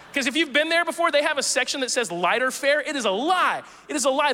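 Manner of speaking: indignant giggle at the menu; calling out the diner's lighter fare, laughing; laughing mock outrage. Real, not acted. Joking about "lighter fare" menu.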